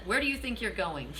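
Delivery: laughing through the question; amused, laughter breaking in. Retold or imitated. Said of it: "That's funny".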